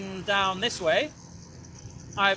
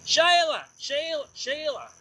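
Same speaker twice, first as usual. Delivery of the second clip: put-on terrible Australian accent; 8 semitones higher, slower than usual. Rider practising calls to Sheila, high mock Australian accent. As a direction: call the name in a hammed-up Australian accent. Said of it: "Australian accent".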